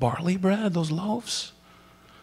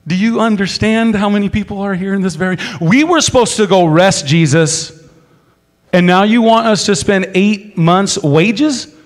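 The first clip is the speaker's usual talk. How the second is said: incredulous disbelief; 6 semitones higher, 9 dB louder than usual. Retold or imitated. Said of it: "you're like".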